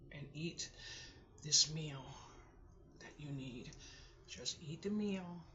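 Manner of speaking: soft, halting self-coaxing between sighs; holding back tears. Real, not acted. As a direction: coax yourself along in small, breathy pieces. Coaxing herself to eat, fighting tears.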